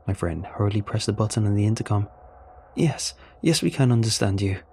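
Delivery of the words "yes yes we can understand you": excited. Acted. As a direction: jump in eagerly to reply. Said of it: "he said in an excited tone".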